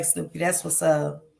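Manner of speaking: ordinary talk, nothing marked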